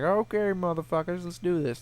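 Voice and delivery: rally yourself for the fight, voice up; pumped challenge. Retold or imitated. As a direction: gamer psyching up against two cheaters, fired up. Self-quote, challenging two players.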